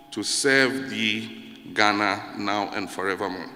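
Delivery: measured solemn reading; anthem recitation. Shown as a demonstration. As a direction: recite it like a sacred vow, unhurried. Reciting the anthem's second stanza.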